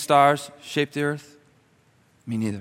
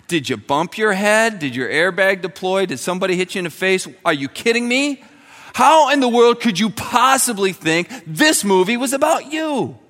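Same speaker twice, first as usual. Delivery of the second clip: incredulous rebuke; 6 semitones higher, 4 dB louder than usual. Pretend. Imagined retort to boastful friend.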